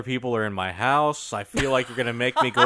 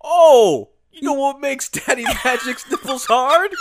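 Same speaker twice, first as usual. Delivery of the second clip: catchphrase voice; 12 semitones higher, 6 dB louder than usual. Retold or imitated. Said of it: "That's his catchphrase".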